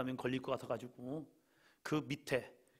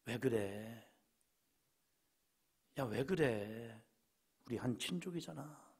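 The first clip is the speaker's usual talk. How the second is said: much softer, slow, tender appeal; gentle plea; 2 semitones lower, 5 dB quieter than usual. Acted. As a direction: coax a quarreling kinsman to peace. Abraham gently pleading with Lot. (조카 롯을 다독이는 부드럽고 조용한 간청)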